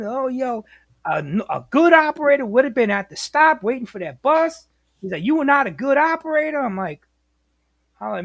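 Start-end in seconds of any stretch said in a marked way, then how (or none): 0.0-4.7 mild mock yell, complaining; yelling and bitching. Dispatcher berating a driver walking with him, mock griping. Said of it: "he's yelling and, you know, bitching and screaming". 5.2-6.6 higher, mildly raised reproach; mock yelling. Dispatcher judging the driver, mock yelled scolding. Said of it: "he's yelling and, you know, bitching and screaming".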